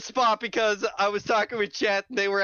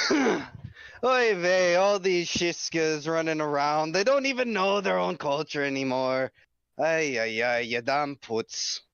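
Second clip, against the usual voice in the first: put-on Yiddish accent; 2 semitones lower, slower than usual. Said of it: "try to make it innocuous".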